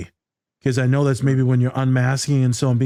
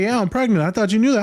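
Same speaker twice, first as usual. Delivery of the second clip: lightly voiced higher lady; a hint of a higher woman's voice; imitating the lady; 7 semitones higher, faster than usual. Voicing the other lady.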